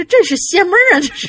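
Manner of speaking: put-on Shandong dialect accent laid over the line. Retelling what an uncle said about a strange event: imitating Shandong accent. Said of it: "这大姨夫就用山东口音".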